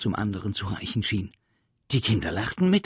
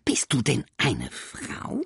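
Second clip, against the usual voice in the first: innocent creature; 5 semitones higher than usual. Acted. Sams innocently asks.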